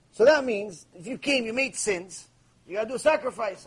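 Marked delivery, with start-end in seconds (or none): none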